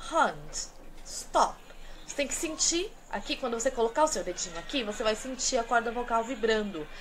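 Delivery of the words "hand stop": "Hand" and "stop" with their vowels from the back of the throat; British vowels. Shown as a demonstration. Teacher modelling the British vowels for students to copy. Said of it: "fazerem o som sair daqui de trás".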